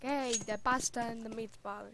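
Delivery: hammed-up New York accent. Boy imitating a man at the hospital, New York accent. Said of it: "had, like, some New York accent".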